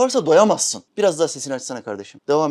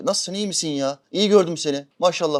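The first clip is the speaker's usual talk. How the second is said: fake friendliness; 2 semitones higher, 3 dB louder than usual. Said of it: "karşıdakine diyor ki".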